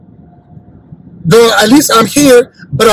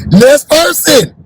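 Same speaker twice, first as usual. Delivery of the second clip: laughing repeat; 5 semitones higher, much slower than usual. Acted. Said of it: "repeats laughing, slowly".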